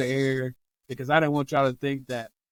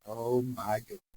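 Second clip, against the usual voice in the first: low, soft smiling wonder; audible smile; 4 semitones lower, 8 dB quieter than usual. Retold or imitated. Therapist spotting former patient, audible smile. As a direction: say it softly through a smile. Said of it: "you could hear him smiling".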